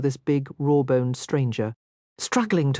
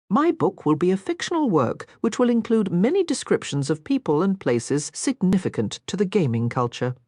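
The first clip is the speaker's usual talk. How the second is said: put-on breathless, eager young miss; eager young lady; 2 semitones higher than usual. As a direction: gush with curiosity, lightly voiced. Narrator voices Sarah.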